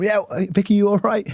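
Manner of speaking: high, bright calling-out hello; cheery greeting. Retold or imitated. Greeting Vicky from the front row, high and chirpy. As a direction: call across to her from the front.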